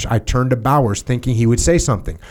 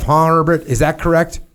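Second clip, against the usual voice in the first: mocking question; 5 semitones higher than usual. Major mocks the narrator.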